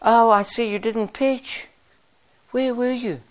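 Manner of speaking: soft, timid mock apology, slow; apologetic. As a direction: tiptoe around it like you're afraid to offend. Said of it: "we go apologetically".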